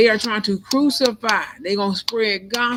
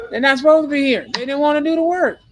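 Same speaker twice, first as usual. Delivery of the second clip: emphatic; 5 semitones higher, 6 dB louder, faster than usual. Real, not acted. Emphatic warning about others.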